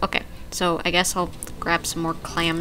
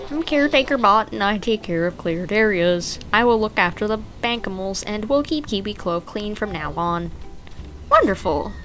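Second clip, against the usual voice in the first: lightly voiced helper robot; a hint of a friendly robot. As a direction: read it as a cheerful caretaker bot. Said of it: "think of what a voice for this".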